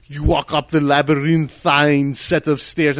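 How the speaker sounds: slow, grandiose narrator voice; pompous narrator. Retold or imitated. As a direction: ham up the narrator's overwritten line. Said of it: "he's like".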